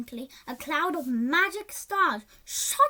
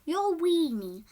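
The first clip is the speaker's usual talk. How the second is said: chuckling; 3 semitones higher than usual. Acted. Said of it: "chuckled the maid".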